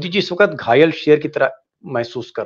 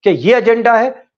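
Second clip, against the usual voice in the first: questions climbing higher and louder; building loud questions; 4 semitones higher, 5 dB louder than usual. Real, not acted. Anchor pressing the panel, rising and louder. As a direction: press harder with each question.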